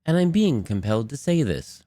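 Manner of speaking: measured line read; voice-over read. Shown as a demonstration. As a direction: deliver it as a scripted line. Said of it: "little different tone inflections".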